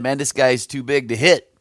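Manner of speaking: mildly acted onlookers sizing up a giant; retold daunted onlookers. Everybody else looking at Goliath, retold as mild dismay. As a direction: lightly voice the doubters' verdict. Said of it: "everybody else took one look at Goliath and said".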